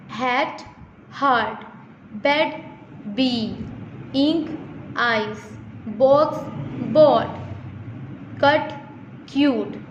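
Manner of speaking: word pairs like "hat, heart", short vowel then long, each word alone with a pause; vowel demonstration. Shown as a demonstration. Teacher pronouncing examples for students, "box, board" set apart as short and long vowels. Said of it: "जैसे मैं pronounce कर रही हूँ".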